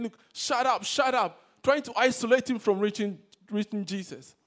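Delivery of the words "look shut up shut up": loud, raised-voice order to silence someone; forceful acted scolding from the crowd; hushing bystanders. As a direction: shout him down. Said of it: "other people by his side saying".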